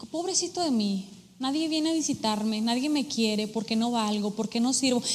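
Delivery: soft, mildly whiny imitation of self-pity; mock self-pity. Mimicking a self-pitying believer, soft and mopey. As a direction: sigh it out like feeling sorry for yourself.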